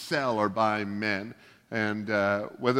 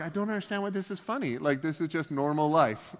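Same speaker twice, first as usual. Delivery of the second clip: fast, higher puzzled inner voice; baffled self; 5 semitones higher than usual. Retold or imitated. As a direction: play your own confusion at the sitcom joke. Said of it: "I'm like".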